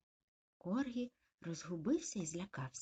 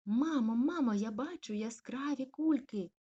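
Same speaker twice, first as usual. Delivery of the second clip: high, loud excited call; excited puppy; 6 semitones higher, 7 dB louder than usual. Acted. Puppy calling mum about the balloons, excited. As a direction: shout with delight at balloons.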